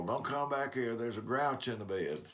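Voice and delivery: a mild, half-joking call down the hallway; mock yell. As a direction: grandfather calling out to a grandson, as a mock yell. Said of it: "I felt like yelling down the hall".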